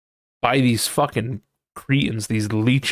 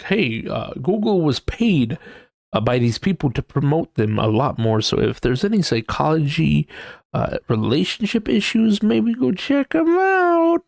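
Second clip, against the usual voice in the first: mock AI chatbot; 3 semitones higher than usual. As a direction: parody a paid-promo chatbot. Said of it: "the Gemini bot being like".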